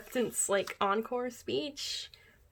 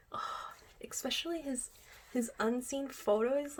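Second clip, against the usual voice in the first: higher, hushed whisper; higher giddy whisper; gushing whisper; 4 semitones higher than usual. Real, not acted. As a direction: whisper it, giddy over the photos. Gushing over idol photos.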